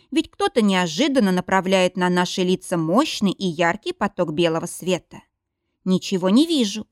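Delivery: ordinary delivery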